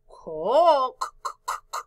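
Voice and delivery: "Co" then bare k sounds, "c, c, c"; hard C sound. Shown as a demonstration. Teacher shows which C it is, clicking k sounds in "c, c, c". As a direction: sound out "Co", repeating the voiceless k of "c". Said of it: "Co no dice s".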